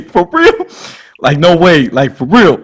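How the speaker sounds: high-pitched, thrilled disbelief; retold astonishment. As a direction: squeal it in mock amazement.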